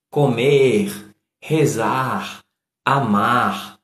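Comer, rezar, amar with each final R clearly voiced; final R sounded. Shown as a demonstration. Showing infinitives with the R at the end. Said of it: "o R mais vibrante".

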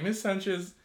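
imitating a dead-serious student asking the teacher. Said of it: "you raised your hand so serious".

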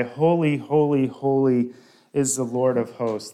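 loud ringing proclamation of holy; crying out praise. Acted. Preacher voicing the seraphim's cry, loud and ringing. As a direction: call it out like angels in praise.

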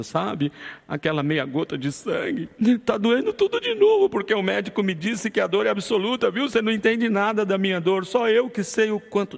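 hammed-up whining about a pinprick; mock self-pity. Self-pitying husband to his wife.

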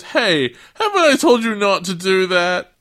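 high, loud telling-off; mock angry boat-guy yell; scolding shout. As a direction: holler after someone who ignored you.

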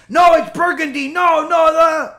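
loud, high insistent yelling; mock shout. Preacher imitating a man screaming the sky is burgundy. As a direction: yell it in someone's face like a rabid animal. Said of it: "He's in your face".

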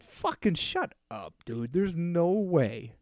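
mock outrage at the doctor; retold angry disbelief. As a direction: tell him off like he's crazy. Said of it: "I said".

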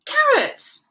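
drawn-out ooh, rising high; loud, high, excited spotting; delighted discovery. A narrator's reading. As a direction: point out a treat eagerly. Teddy spots carrots.

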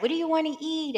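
a hint of an eager mother; lightly voiced mom. Mom offering food to her visiting daughter, lightly imitated.

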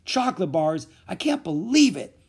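high, loud disbelief; incredulous complaint; disbelieving. A narrator's reading. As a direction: say it aghast, rising on the second phrase. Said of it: "Louis mumbled".

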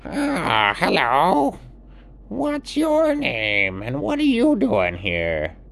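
high, loud friendly bird greeting; a curious toucan calling down to a stranger. Acted. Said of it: "And the toucan came out and said".

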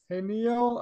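mock cheerful hello. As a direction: sing out the name brightly. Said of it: "something funny about the, the tone".

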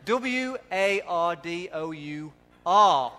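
slow, letter-by-letter "W A R D O U R"; mock American spelling. Preacher mocks American pronunciation, slow deliberate spelling. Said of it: "That's how they pronounce it".

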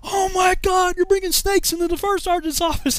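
high, loud outraged accusation; drill sergeant shouting. Retold or imitated. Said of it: "He's like".

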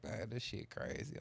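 slow whispered aside. Retold or imitated. Speaker musing about the sagging kid, slow whisper. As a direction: breathe it to yourself. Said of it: "I'm like".

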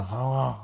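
"Atlanta" said breathily with the t's dropped; "Atlanta" breathed out, the t swallowed; breathy local Atlanta. Shown as a demonstration. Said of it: "You gotta breathe in it".

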